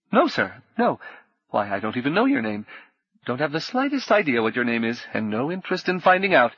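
a flustered innkeeper stammering it out; nervous innkeeper. Acted.

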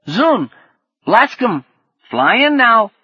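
high, loud creature squawks; lizard's kid speak. Acted. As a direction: call out as an excited little lizard. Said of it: "so sunk in kid speak".

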